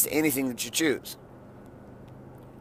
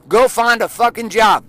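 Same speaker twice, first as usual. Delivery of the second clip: higher, louder, slow barked order; loud command; 6 semitones higher, 5 dB louder, slower than usual. Retold or imitated. Telling her to go find a job, loud slow bark. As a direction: shove her toward work.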